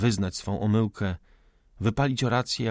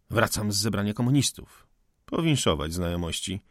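devilish glee; 2 semitones lower than usual. Acted. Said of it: "rzekł z diabelską uciechą".

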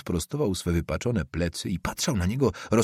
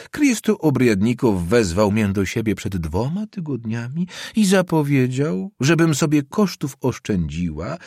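put-on higher, louder fretful old woman; an aggrieved old landlady pouring out her troubles; old woman telling her son's friend the bad news, fretful and higher; 4 semitones higher, 4 dB louder than usual.

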